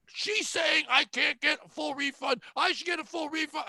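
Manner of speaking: high, slow indignant customer; whiny complaint. Retold or imitated.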